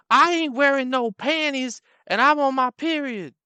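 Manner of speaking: high, loud brash woman. Retold or imitated. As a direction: blurt it out shamelessly. Same woman voiced.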